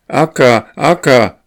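high, loud pleading wail; heartrending cry. A narrator's reading. Impatient goslings crying to Akka, high heartrending wail. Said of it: "mit herzzerreißender Stimme".

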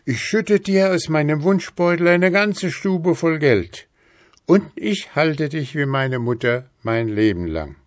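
gehobene, lautere, eifrige Männerstimme; rufender Mann. A narrator's reading. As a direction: neuen Mut fassen und laut versprechen. (eifrig rufender Mann)

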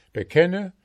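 bekenne shouted high and loud; insistent demand. Acted. Goldsmith shouting bekenne at the trapped dwarf. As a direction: hammer the word bekenne.

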